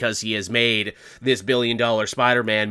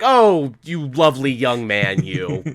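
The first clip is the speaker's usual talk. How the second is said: mock doting; slower than usual. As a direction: coo over him like a doting elder. Mock doting on young actor.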